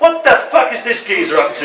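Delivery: road rage shout. Acted. Driver in the poem yells at a motorist, furious. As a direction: yell it through the windscreen.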